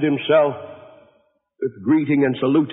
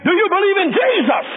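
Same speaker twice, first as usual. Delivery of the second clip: shouted back. A narrator's reading. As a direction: bellow it back at him. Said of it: "The great preacher shouted back again".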